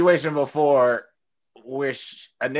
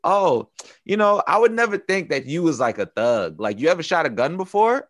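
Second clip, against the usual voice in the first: incredulous mock girl; 4 semitones higher, 4 dB louder than usual. Imitating his date asking about guns, naive and incredulous. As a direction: mimic her wide-eyed question, pitched up. Voicing the girl's clueless question.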